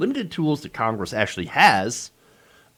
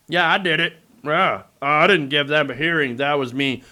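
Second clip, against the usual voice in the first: proud boast. Retold or imitated. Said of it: "He's proud".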